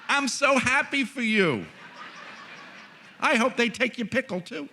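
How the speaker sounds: very high, loud mock rejoicing; hammed-up glee. Imagined well-wisher to sandwich theft victim, hammed-up glee. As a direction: squeal with exaggerated delight for someone's misfortune.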